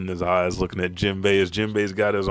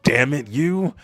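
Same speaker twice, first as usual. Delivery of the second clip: loud, high mock-angry growl of words; exasperated curse; 6 semitones higher, 6 dB louder than usual. Loki fed up with Luffy, exasperated. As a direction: curse at your rival.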